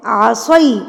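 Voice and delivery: आसई with its last vowel gliding to ee; ya leen glide. Shown as a demonstration. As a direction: slide from a into ee ending आसई. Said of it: "या लीन है ना ये".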